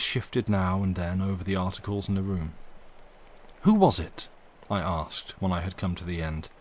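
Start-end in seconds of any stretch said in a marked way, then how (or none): 3.6-4.3 urgent question. A narrator's reading. Narrator presses the maid.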